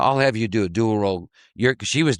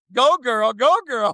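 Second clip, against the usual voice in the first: cheering; 12 semitones higher than usual. Real, not acted. Cheering the role-player.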